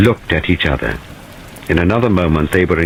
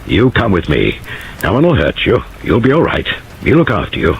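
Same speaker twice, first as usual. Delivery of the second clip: spoken gently; 4 semitones higher than usual. Acted. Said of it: "he spoke quite gently".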